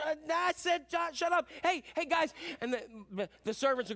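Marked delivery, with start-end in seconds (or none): 0.0-2.3 high, stammered brush-off turning to a call; impatient excited father. Acted. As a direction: cut off the apology and hail the servants, pitched up. Father silences son, calls servants.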